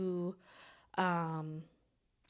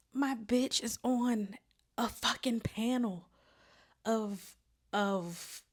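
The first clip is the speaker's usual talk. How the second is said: emotional. Real, not acted. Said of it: "I'm about to get emotional".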